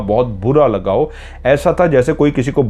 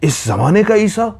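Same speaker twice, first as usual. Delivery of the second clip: high, angry sneer; angry disbelieving demand; angry question; 8 semitones higher than usual. A narrator's reading. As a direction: challenge him with scorn. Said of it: "लहजा बोलने का शदीद गुस्से वाला है".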